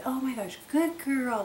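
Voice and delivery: high, whispered gushing praise; overdone praise. Retold or imitated. Praising the puppy for pottying outside, high gushing whisper. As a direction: gush over the dog in a breathy hush. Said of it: "obnoxiously say".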